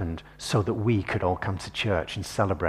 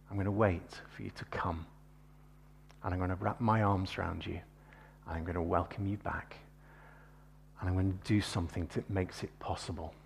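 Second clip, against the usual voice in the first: softer, hushed voice of God; gentle God; 3 dB quieter than usual. Retold or imitated. Preacher voicing God's gentle reply, soft and tender. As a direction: speak God's words tenderly and quietly.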